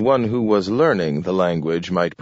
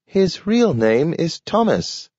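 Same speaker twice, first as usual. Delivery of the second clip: high, slow talking dog; a slow, careful talking dog; 10 semitones higher than usual. A narrator's reading. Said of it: "said Nathaniel".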